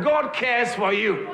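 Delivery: slow, ringing call: "God cares for you" said with full confidence; bold declaration. Shown as a demonstration. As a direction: proclaim "God cares for you" to your neighbour. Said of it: "tell the person, I said".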